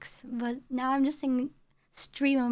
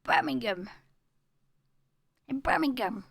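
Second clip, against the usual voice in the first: put-on Brummie accent. Mimicking the local pronunciation.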